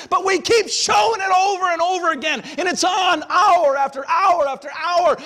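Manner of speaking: loud, high fiery preaching; preaching at full force. Acted. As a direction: hammer it home from the pulpit.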